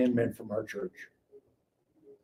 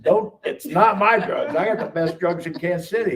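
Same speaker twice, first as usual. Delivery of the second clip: raised pitch, indignant denial; retold angry protest; 4 semitones higher than usual. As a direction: act out getting mad at him. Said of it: "then I really got mad".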